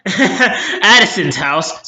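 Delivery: Addison's house said slowly through a laugh with a rising end; amused self-correction, Addison's house drawn out. Real, not acted. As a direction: chuckle at your own slip while saying Addison's house. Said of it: "Sorry, she's so forgettable".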